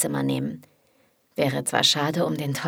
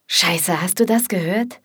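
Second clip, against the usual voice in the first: alarmed; 4 dB louder than usual. Acted. Liam hears someone at the door.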